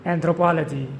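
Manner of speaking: Anthropology, stressed on the third syllable; model pronunciation. Shown as a demonstration. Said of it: "With the stress on the third syllable".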